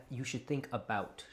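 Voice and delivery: Canadian vowel on "about". Retold or imitated. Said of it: "you're saying that like a Canadian".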